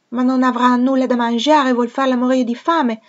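put-on high, loud child's voice asking anxiously; a small girl fretting she'll go hungry; child's alarmed question, high and loud; worried little girl. A narrator's reading. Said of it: "domandò Adele".

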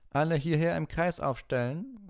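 high, loud, cutting teacher's command; cold Snape. Acted. Snape ordering the class to clean up, cutting. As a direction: bark orders across the dungeon.

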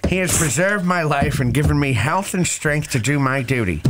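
put-on New England accent. Co-host performing a soldier's letter, mock New England accent. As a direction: declaim it in an old radio New England accent. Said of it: "Do it, do it in that New England accent".

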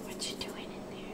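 whisper. Real, not acted. Whispered question to someone off camera.

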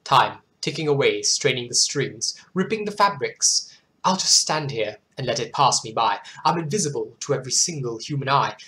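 measured, expressive poem recital; poem reading. Acted. Host reads a viewer's poem to her audience, measured poem reading. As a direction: read it like a solemn poem.

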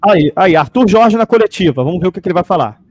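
loud, eager calling out; excited announcing. Real, not acted. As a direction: call out the start excitedly. The press conference starts.

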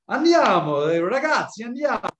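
high-pitched rallying call, loud at the start; acted urging. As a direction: round up the gang to get moving. Acting out rallying friends to go.

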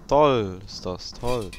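slow, drawn-out sarcastic toll. Real, not acted. Gamer stuck in a room, dry sarcasm. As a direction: say it like it's anything but great.

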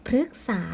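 "พฤกษา" as two syllables, phruek-saa; short ue then long aa in "พฤกษา"; model reading. Shown as a demonstration. Teacher reading the word for pupils, careful pronunciation. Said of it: "คำนี้จึงอ่านว่า".

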